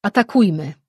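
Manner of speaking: loud battle cry; a soldier yelling to charge blindly; shout. A narrator's reading. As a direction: urge everyone to attack.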